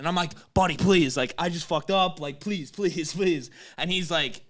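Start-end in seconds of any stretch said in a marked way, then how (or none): 0.5-3.5 lightly acted begging; retold pleading. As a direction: repeat the plea as if begging a favour. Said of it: "pleading with him".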